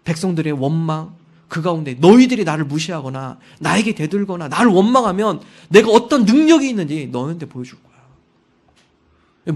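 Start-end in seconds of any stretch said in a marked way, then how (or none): 2.0-9.5 loud, slow, threatening; Moses' anger. Retold or imitated. Moses threatening the resentful people in anger, loud. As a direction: spit the threat out slowly. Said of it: "모세가 마음의 분노".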